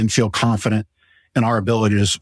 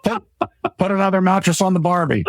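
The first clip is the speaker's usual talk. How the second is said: hammed-up Australian accent, much higher; 9 semitones higher than usual. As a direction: play the jokey Aussie in an Australian accent. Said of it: "you went to Australia and back".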